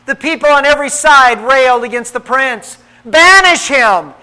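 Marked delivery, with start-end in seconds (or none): 3.0-4.1 a slow angry demand; angry cry out. A narrator's reading. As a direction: call for him to be banished. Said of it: "angrily cry out".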